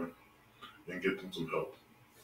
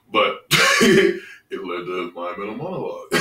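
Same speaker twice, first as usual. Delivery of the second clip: real laugh breaking in after the first word; amused, chuckle into the phrase; 11 dB louder than usual. Real, not acted. Host remembering his late co-host to viewers, laughing.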